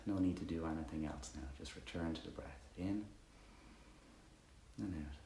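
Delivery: calm meditation guide with long pauses; guided meditation. Acted. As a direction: ease listeners quietly into the breath, leaving space between phrases.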